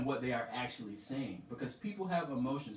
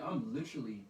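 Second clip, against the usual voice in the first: exasperated protest; 3 semitones higher than usual. Retold or imitated. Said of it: "I'm like".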